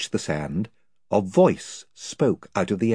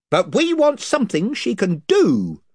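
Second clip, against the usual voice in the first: higher, blustering chief; invisible chief; 11 semitones higher, 4 dB louder than usual. Acted. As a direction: boast of his band's numbers.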